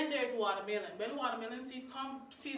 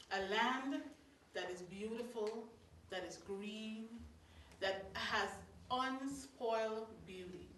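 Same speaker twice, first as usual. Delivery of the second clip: heartfelt recitation; 2 semitones lower, 5 dB quieter than usual. Acted. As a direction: savour each phrase like a love poem. Recites a poetic tribute.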